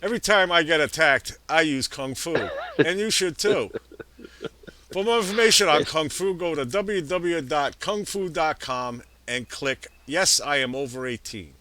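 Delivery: hammy radio ad voice; mock ad read. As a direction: sell it like a cheesy sponsor spot. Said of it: "that one sucked".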